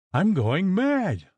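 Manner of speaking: high, slow, terrified wail; frantic cry. Acted. Sick mistress crying to her maid in terror. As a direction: plead in panic, losing your mind.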